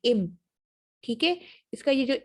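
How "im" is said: "im" with closed lips m; im sound. Shown as a demonstration. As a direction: say "im" with a clear m. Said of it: "वो im sound महसूस होता है".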